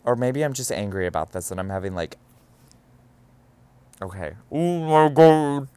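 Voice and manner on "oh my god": slow, higher, louder oh my God; real exasperation; exasperated groan. Real, not acted. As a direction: drag it out in disbelief. Exasperated aside.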